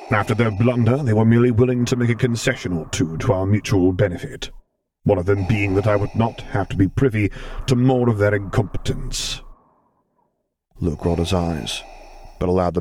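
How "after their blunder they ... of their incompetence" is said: a hint of a gentle stern lord; Vader voice.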